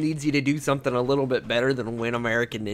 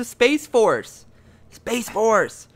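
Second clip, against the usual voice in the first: grand announcement; 7 semitones higher, 4 dB louder, much slower than usual. Acted. Dramatic topic announcement.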